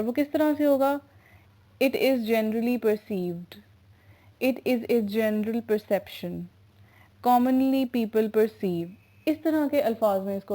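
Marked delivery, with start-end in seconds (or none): 1.8-8.9 very slow, every word spaced out; measured classroom dictation pace. Shown as a demonstration. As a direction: read it out slowly so students can write it down. Teacher dictating example translations.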